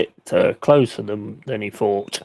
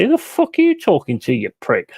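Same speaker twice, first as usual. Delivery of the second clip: retold comeback; 5 semitones higher than usual. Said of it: "turn around and say".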